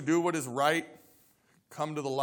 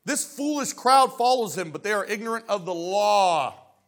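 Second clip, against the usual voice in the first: scornful outburst; 3 semitones higher, 5 dB louder than usual. Acted. Pharisee scorning the crowd, loud and contemptuous. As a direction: spit out "foolish crowd". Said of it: "the Pharisee mocked".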